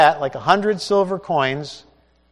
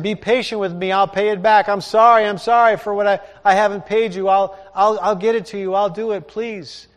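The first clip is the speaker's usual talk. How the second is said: pleading servant, pitched higher and rushed; begging; 6 semitones higher, 5 dB louder than usual. Acted. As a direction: beg for mercy on your knees. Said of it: "begs him".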